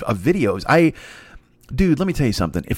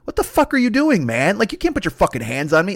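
high-pitched indignant protest; acted outrage at being shoved; indignant confrontation; 6 semitones higher than usual. Player confronting the fan who shoved him, indignant. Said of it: "looks at him, and he's like".

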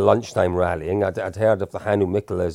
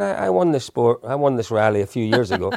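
put-on Irish accent; 3 semitones higher than usual. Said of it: "You can do the accent".

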